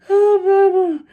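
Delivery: high, loud Alabama twang; Alabama accent. Retold or imitated. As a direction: imitate a thick Alabama drawl on Baba. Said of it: "That's how I know she was from Alabama".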